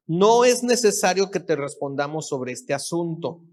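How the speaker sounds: solemn scripture read from the pulpit. Acted. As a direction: read the verses out to the congregation. Reads Bible verses aloud.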